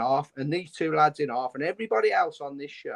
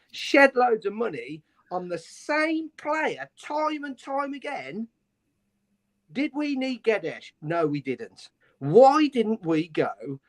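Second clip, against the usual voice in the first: raised pitch, slow and pointed, venting frustration; angry rant; 5 semitones higher, slower than usual. Real, not acted. Fan venting to the show about wasted transfer money, angry. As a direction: spit out each complaint at the club's spending. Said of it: "I'm sorry, I'm angry".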